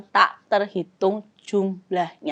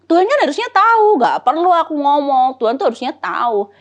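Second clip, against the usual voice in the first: 1 objecting listener voiced; 4 semitones higher than usual.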